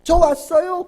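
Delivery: high, loud, acted eager reply; eager greeting. Preacher playing a worshipper answering God's welcome, eager. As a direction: announce your arrival eagerly and loudly.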